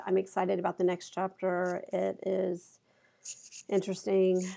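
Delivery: excited words without the excitement; unconvinced excitement. Shown as a demonstration. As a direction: say it hesitantly, stalling before the last word. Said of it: "Versus if I said".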